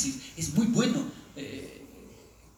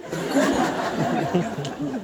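puzzled question; 2 semitones lower, 5 dB louder, much slower than usual. Retold or imitated. Japanese asks, puzzled.

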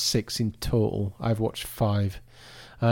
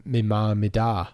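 a light hint of a Cork Irish accent; mildly imitating a Cork Irish accent, me ma, me da. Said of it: "in their accent".

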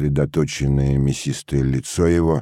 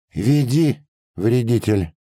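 raised-pitch angry command; harsh order; 7 semitones higher, slower than usual. A narrator's reading. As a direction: order the culprit to lead the way. Orders the peasant to lead. (сердито приказывает)

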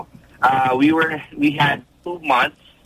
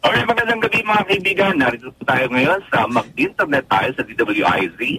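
booming late-night radio host greeting. Shown as a demonstration. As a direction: open like an AM radio announcer. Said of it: "Can I hear your A M radio voice".

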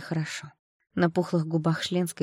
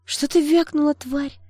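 high, loud venomous challenge; seething mean-girl outrage; hissed fury; 10 semitones higher, 7 dB louder, slower than usual. A narrator's reading. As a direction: spit it out, losing your temper. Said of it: "прошипела Шленская, начиная выходить из себя".

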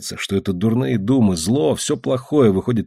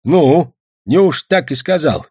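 high, loud disbelieving question; old man's incredulous exclamation; astonished grandfather; 6 semitones higher, 4 dB louder, slower than usual. A narrator's reading. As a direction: marvel slowly, pitched well up. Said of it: "воскликнул дед".

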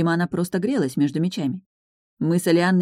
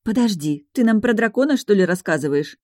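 disappointed drawl; 5 semitones higher, 3 dB louder than usual. Acted. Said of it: "разочарованно протянула Анна".

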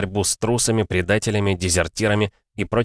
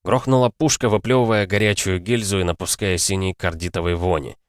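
usual speaking voice

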